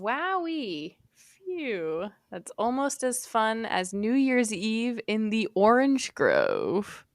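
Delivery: quiet. Shown as a demonstration. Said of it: "Can you do it in a voice?".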